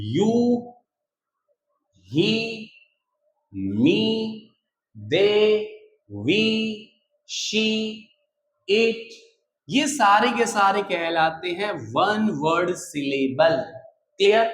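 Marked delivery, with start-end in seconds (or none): 0.1-9.1 "you", "he", "me", "they", "we", "she", "it" each in one unbroken sound; single-syllable demo. Shown as a demonstration. Teacher showing students one sound at a time, each word in one piece. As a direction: say each word in one go, pausing between words. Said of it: "एक साथ आवाज आ रही है".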